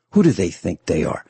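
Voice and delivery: ordinary talk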